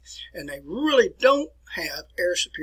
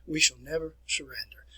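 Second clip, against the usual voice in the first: Churchill quotation; 4 dB louder than usual. Retold or imitated. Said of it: "one of his quotations was".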